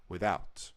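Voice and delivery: without, with the weight on "out"; stress on out. Shown as a demonstration. Explaining how people say the word, stress on out. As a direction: rush the "with" in without, land hard on "out". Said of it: "emphasis is on the word out".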